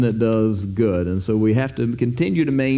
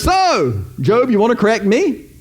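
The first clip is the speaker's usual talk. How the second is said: teasing God; 7 semitones higher than usual. Retold or imitated. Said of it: "God says".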